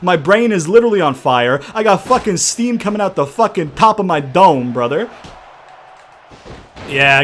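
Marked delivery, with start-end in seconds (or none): 0.0-5.1 worked-up, raised-voice venting; heated yelling. Real, not acted. Gamer sweating from his own rage, heated yelling. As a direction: vent like you're overheating from yelling. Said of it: "I'm yelling so fucking much".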